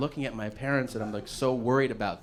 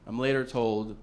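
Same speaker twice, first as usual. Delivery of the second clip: ordinary delivery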